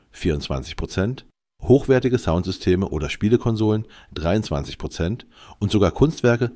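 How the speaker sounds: AI-generated news read; steady computer newsreader voice; synthetic voice. Real, not acted. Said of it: "mit der synthetischen Stimme". (synthetische Nachrichtenstimme)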